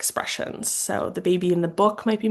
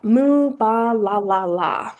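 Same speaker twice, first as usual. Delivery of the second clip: put-on reading to children; 3 semitones higher, 5 dB louder, slower than usual. Shown as a demonstration. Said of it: "an example of how you might read this book".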